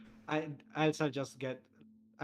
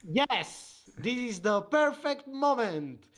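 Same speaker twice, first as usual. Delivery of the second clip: high, slow, hammed-up radio seduction; drawn-out sultry announcer line; sexy radio announcer; 10 semitones higher, 7 dB louder, slower than usual. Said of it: "they speak like an announcer".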